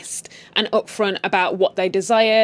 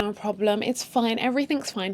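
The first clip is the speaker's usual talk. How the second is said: softer, nervous it's fine; desperate reassurance; 5 dB quieter than usual. Retold or imitated. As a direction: mock-desperate wife covering up. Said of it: "in a desperation".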